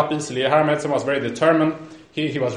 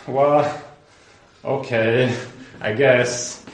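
low, halting consent; reluctant agreement; 4 semitones lower, much slower than usual. Retold or imitated. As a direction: give in reluctantly, word by word. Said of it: "And reluctantly".

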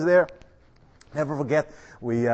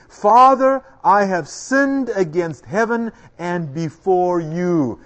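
son's plea; 5 dB louder, much slower than usual. Acted. Preacher voicing the prodigal son.

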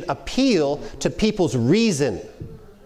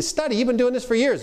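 much higher, surprised disbelief; mock the lunch host's astonishment, pitched well up; incredulous host; 9 semitones higher than usual. Lunch host surprised the preacher must study, incredulous and higher. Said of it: "They say".

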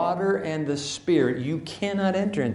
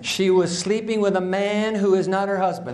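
raised, high-pitched public accusation; loud accusation; 5 semitones higher than usual. Acted. Religious leaders accusing the woman before Jesus, loud. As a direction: announce it to the whole crowd. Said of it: "And in loud voices".

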